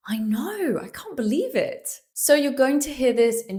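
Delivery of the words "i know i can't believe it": high, swooping small-talk disbelief; amazed agreement. Shown as a demonstration. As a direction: agree in wonder, pitch swooping up.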